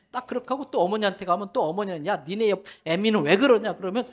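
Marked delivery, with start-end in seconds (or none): 2.1-3.8 complaining mother-in-law. Retold or imitated. Mother-in-law complains about wife.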